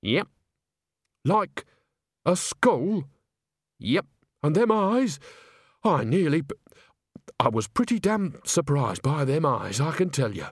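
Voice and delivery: lightly voiced storybook country woman; a hint of rustic astonishment; Nanny character. Telling Granny about the skull and eyes, lightly voiced character.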